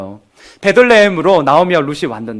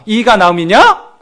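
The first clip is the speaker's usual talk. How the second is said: mocking; 3 semitones higher, 4 dB louder, slower than usual. Shown as a demonstration. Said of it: "이런 조롱의 뉘앙스가".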